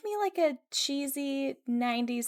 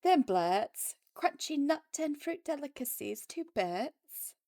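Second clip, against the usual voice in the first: Moira Rose; 5 semitones higher than usual. Retold or imitated. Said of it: "I'm gonna do this one like Moira Rose".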